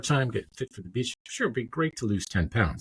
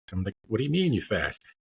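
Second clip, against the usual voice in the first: normal talking voice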